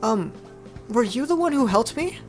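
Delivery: high, hesitant character voice; timid Noi. Acted. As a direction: pitch it up, unsure. Voicing shy Noi in dialogue.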